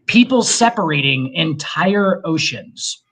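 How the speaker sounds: slow, deliberate restating; said slowly. Shown as a demonstration. Ranting to friends about the Bible, said slowly. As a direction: spell it out slowly for them. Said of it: "I'm gonna say this again slowly".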